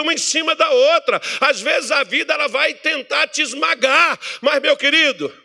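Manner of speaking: loud, high sermon voice; fiery preaching. Acted. Pastor preaching on José's trials, shouting. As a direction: preach the story of José with fire.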